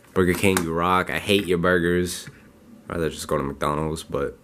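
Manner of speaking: just woke up, raspy; rough morning voice. Real, not acted. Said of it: "I'm sorry for my voice, really raspy".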